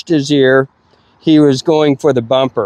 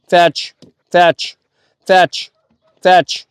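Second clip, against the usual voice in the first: repeated fetch commands, pitched higher; insistent commands; 4 semitones higher, much slower than usual. Shown as a demonstration. Trainer showing the dog repeated fetch commands, pitched higher. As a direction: keep calling "fetch" over and over, higher. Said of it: "stamp my leg 'cause there's flies on me".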